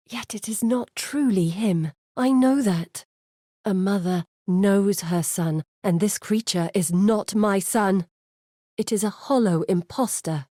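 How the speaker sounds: she refuses to accept the thing wearing her son's face; firm and grief-struck; grieving mother's defiance. Acted. Grieving mother declares son impostor.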